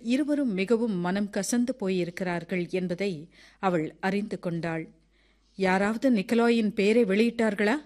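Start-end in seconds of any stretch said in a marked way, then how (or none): none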